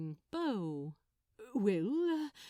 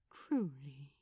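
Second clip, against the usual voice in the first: tender; 7 semitones lower than usual. A narrator's reading. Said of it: "The way Aziraphale said his name".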